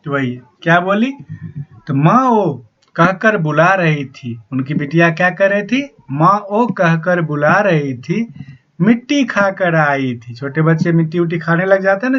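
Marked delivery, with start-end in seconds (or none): 1.9-4.4 slow, measured reading of a verse; poem recitation. Acted. Teacher slowly reciting the poem to the students. 6.1-10.3 slow, measured reading of a verse; poem recitation. Acted. Teacher slowly reciting the poem to the students.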